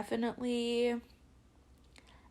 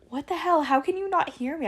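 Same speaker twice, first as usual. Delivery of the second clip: mock annoyed yell; 7 semitones higher, 3 dB louder than usual. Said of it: "I'm literally screaming back at you".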